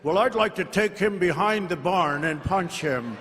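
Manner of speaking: light imitation of Biden, barely voiced; a hint of Biden, dry and plain; Biden quote. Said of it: "Remember when Biden used to say".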